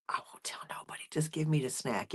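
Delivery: whispered secret bargain; conspiratorial cat whisper. Acted. Momo agrees to a secret snack, whispering. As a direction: breathe it like a sneaky accomplice. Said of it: "Momo would be like".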